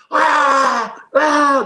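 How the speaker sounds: very loud, high imitated screams; hysterical scream. Preacher imitating the screaming at the house, loud high scream. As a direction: scream out in full-voiced hysterics. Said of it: "Istri teriak-teriak gitu".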